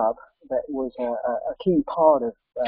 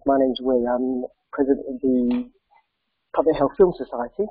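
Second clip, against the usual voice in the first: croaky voice. Real, not acted. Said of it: "excuse my croaky voice".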